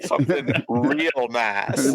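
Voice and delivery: slow drawn-out movie line; Christmas Vacation quote. Retold or imitated. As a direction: stretch out something real nice. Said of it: "That was a Christmas Vacation reference".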